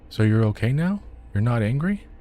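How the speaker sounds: put-on high, hopeful child's question; anxious little boy. A narrator's reading. Boy asks his father if he is still angry, anxious child voice. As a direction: check he is safe now.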